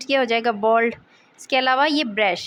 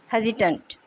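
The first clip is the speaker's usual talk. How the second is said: हेजिटेंट with the stress on HE; HEZ-i-tant, falling after the first syllable; 3 semitones lower than usual. Shown as a demonstration. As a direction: model हेजिटेंट, leaning on the opening HE. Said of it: "word stress है पे आएगा".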